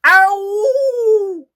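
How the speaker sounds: high, loud monster cry of pain; pained yelp. Acted. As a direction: yelp as tools jab you. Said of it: "The creature just about cried".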